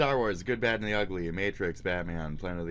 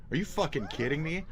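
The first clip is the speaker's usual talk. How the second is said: disbelief; 8 semitones higher than usual. Shown as a demonstration. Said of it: "I'm just saying, "Are you fucking kidding me?" a bunch".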